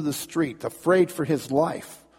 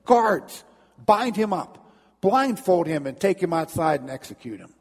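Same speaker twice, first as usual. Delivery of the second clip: an emperor insulted, ordering punishment; indignant command; 4 semitones higher than usual. Acted. Napoleon ordering his guards, indignant shout. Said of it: "all indignant".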